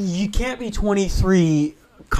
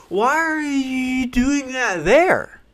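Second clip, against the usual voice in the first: very slow, high wail; mock baffled cry; 10 semitones higher, much slower than usual. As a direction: stretch the question out high in hammed-up disbelief. Acted outcry at screamers in woods.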